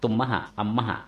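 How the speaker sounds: ตุมมหะ อัมมหะ with ม lightly doubled into "ma"; linked-consonant reading. Shown as a demonstration. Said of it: "อ่านว่าตุมมหะ อัมมหะ".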